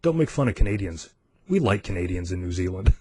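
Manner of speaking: deadpan, understated warning; deadly serious. Retold or imitated. Customs guy scolding the American, deadly serious. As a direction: deliver it straight, without a trace of joking. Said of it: "serious as a heart attack".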